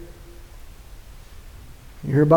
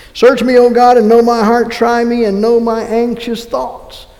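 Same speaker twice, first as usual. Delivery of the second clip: fervent prayer reading; 4 semitones higher, 3 dB louder than usual. Acted. Closing psalm prayer read aloud.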